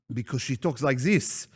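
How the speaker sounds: light, badly faked French accent. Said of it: "a French accent".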